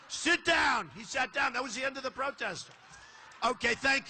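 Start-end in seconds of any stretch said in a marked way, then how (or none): 0.1-0.9 retold command. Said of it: "I said".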